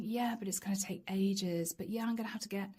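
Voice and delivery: hushed grudging whisper; whispered inner thought. Retold or imitated. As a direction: mutter it to yourself under your breath. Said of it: "this is you pondering".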